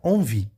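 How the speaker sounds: "Envie" with EN as nasal "on"; French nasal pronunciation. Shown as a demonstration. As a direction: say "Envie" as "on-vi", the N not sounded separately. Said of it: "dá o som de, de quê? De on".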